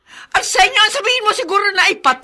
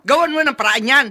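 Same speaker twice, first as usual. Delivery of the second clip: angry dismissal; 3 semitones higher than usual. Acted. Wife dismissing husband angrily.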